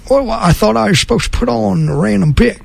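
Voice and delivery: high-pitched put-on befuddled listener; confused listener. Host voicing someone who tuned in expecting another show, confused listener. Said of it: "you might be thinking".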